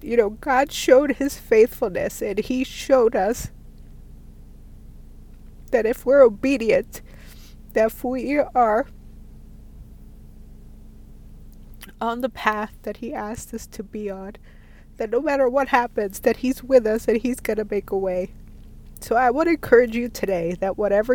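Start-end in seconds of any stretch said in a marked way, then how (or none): 0.0-2.2 teary, choked-up voice; after crying. Real, not acted. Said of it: "Sorry, I'm getting teary-eyed". 2.2-3.5 tearful, voice catching slowly; fighting back tears; after crying. Real, not acted. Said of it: "Sorry, I'm getting teary-eyed". 5.7-18.3 teary, choked-up voice; after crying. Real, not acted. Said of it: "Sorry, I'm getting teary-eyed".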